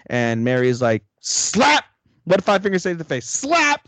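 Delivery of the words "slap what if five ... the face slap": high, loud comic slap call; mock slap cry. Retelling Mary slapping Will, a high mock slap shout.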